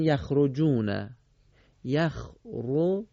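slow, stretched يخرجون; drawn-out Quranic reading. Shown as a demonstration. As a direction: stretch یخرجون slowly as in recitation. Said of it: "جوون یا جون؟".

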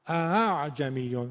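slow اعجمیون with both fathas audible; two fathas. Shown as a demonstration. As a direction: let اعجمیون carry two distinct fathas. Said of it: "دو تا فتحه بشینه". (اعجمیون با دو فتحه)

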